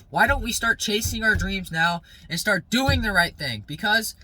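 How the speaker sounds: fired-up motivational rant; getting aggressive. Real, not acted. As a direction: hammer it home like a pep talk. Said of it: "I'm sorry I'm getting aggressive".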